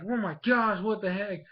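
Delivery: high-pitched mock shock; alarmed disbelief. Fletchling as Ash goes at it again, alarmed disbelief. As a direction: imitate a flustered victim. Bird reacts to being attacked.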